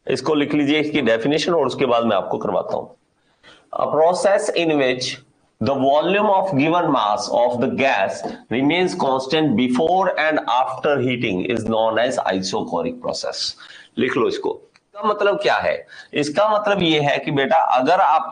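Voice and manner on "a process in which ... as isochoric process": slow, measured definition read-out; dictation. Acted. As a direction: dictate it slowly for students to write down. (धीरे-धीरे परिभाषा लिखवाते हुए)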